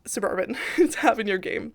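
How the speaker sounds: short of breath while talking; breathless from allergies. Real, not acted. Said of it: "I'm getting kind of out of breath".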